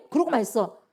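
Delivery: ordinary talk, nothing marked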